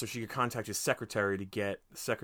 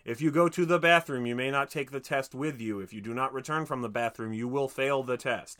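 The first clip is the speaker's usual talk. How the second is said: stern proctor; 2 semitones higher, 4 dB louder than usual. Retold or imitated. Proctor rules read before exam.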